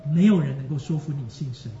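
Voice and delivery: 有 in 没有人 stressed and loud; emphatic 有. Real, not acted. Preacher presses the point to his friends, stressing 有. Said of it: "preacher's emphatic repetition".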